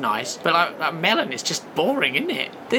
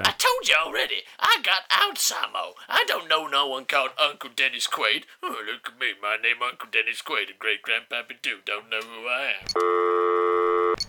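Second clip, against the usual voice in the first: put-on confused old man; 5 semitones lower than usual. Great Grandpappy Doo telling Howard he forgets, drifting low. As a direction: mumble off into befuddlement.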